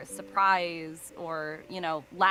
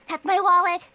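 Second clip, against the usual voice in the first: high, loud yelp with voice cracking; worked-up outburst; 12 semitones higher, 11 dB louder than usual. Acted. Stoic Anby caught out over wallet, worked-up and cracking. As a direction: break out of stoic calm, voice cracking. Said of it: "so worked up, and her voice cracks".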